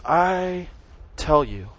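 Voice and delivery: emphatic, stretched "I"; stress on I. Retold or imitated. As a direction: lean long on "I", pause before "tell you". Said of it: "it's emphasized".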